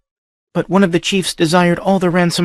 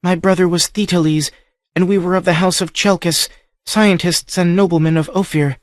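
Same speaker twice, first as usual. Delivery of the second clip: high voice close to breaking; faltering, grieving; 9 semitones higher than usual. A narrator's reading. Captive girl telling the stranger of her brother, faltering. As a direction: hold back the grief as she tells it. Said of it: "Her voice faltered and broke".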